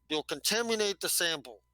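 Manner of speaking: fussy, mouth-stuffed scolding; lightly voiced slug scientist, annoyed. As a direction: scold like a mush-mouthed Churchill. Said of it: "He's like Winston Churchill with some stuff in his mouth".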